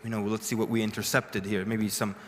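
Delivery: imitating solemn officials, low and hushed; all serious. Office staff briefing the translator, mock gravity. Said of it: "everyone was standing all serious".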